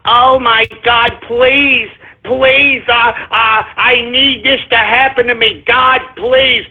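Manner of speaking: mildly whiny pretend plea; lightly mocking, halting prayer; mock praying. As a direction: imitate someone helplessly praying. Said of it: "sit here and pray".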